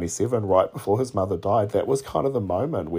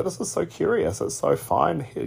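lightly voiced little swallow, much higher; a small bird marvelling at the night, pitched up; storyteller voicing the swallow, lightly, higher; swallow's voice; 9 semitones higher than usual. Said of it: "he's like".

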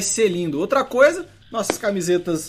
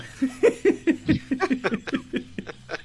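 wheezy laugh; 6 semitones higher, 5 dB quieter than usual. Real, not acted. Laughs at zero points joke.

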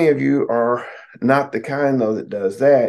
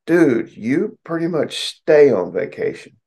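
high, drawn-out teasing jab; teasing retort; 6 semitones higher, slower than usual. Retold or imitated. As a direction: needle them slowly and knowingly. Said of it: "I'm like".

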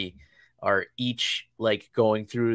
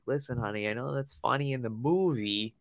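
lightly imitated gentle parental talk; mild retold dad reprimand; dad's four-year-old speak; 2 semitones higher than usual. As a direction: explain patiently to a small child. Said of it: "I had to put this in four-year-old speak".

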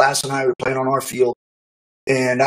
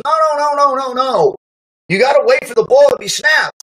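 coach yelling; 10 semitones higher than usual. Retold or imitated. Coach stops the play yelling.

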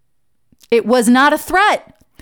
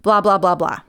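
mock wrong phrasing; 2 semitones lower, slower than usual. Shown as a demonstration. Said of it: "we say things like".

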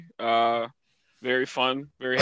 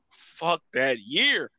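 drawn-out curse; 2 semitones higher, much slower than usual. Retold or imitated. Retelling New Year's emotion.

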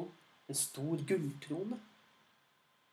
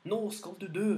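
higher, louder mock war cry; battle cry; 5 semitones higher, 4 dB louder, faster than usual. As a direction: shout it as you raise the sword. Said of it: "og ropte".

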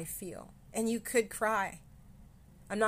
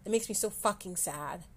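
blunt, fuller-voiced sad admission; honest sadness. Real, not acted. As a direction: say it straight, no softening. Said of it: "let me just be honest".

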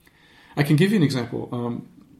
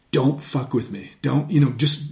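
slightly raised, insistent warning; fiery. Shown as a demonstration. Coach voicing someone who won't be messed with, fiery. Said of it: "It's fiery".

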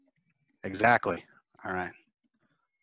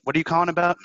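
curious prospect; 8 semitones higher, 7 dB louder, faster than usual. Retold or imitated. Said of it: "they might even eventually go".

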